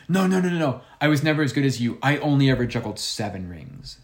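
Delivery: high, insistent start, easing down; old woman. Retold or imitated. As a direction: lightly imitate an old lady protesting. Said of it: "And she goes".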